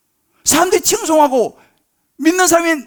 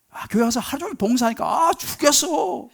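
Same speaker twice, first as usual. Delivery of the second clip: tired whine; 2 semitones higher, 4 dB quieter than usual. Retold or imitated. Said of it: "피곤하다 그러고 막 짜증내고".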